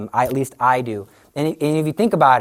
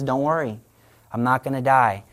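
calm reassurance; 3 semitones lower than usual. Retold or imitated. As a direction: soothe them gently, unshaken. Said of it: "very calmly".

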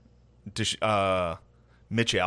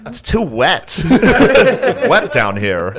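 put-on botched Jewish accent; 7 semitones higher, 7 dB louder, much slower than usual. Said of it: "I can't do a Jew".

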